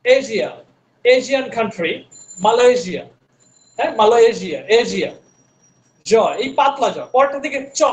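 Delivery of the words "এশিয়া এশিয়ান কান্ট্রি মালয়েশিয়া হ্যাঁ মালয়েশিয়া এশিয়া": এশিয়া said with a zh sound; foreign way. Retold or imitated. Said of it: "বিদেশিরা দেখবেন যে বলে এশিয়া".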